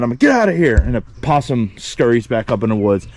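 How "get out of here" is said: mild mock yell, pitched higher; higher-pitched, half-strength holler; retold yell. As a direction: replay a shooing yell without full volume. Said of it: "I'm, like, yelling".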